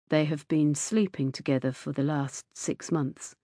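low, soft, measured disclosure; said quietly. A narrator's reading. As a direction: break the news quietly to the mother. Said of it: "He said quietly".

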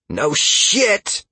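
high-pitched biting retort; hissed retort. A narrator's reading. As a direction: hiss it back sharply. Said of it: "Halcyon hissed".

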